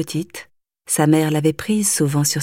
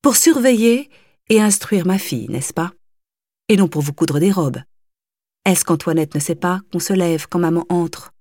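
severe. Acted. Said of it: "commença sévèrement madame Kampf".

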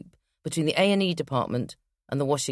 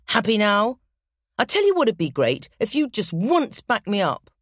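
louder, higher, exasperated; angry; 4 semitones higher, 3 dB louder than usual. Acted. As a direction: snap it in frustration. Marital row.

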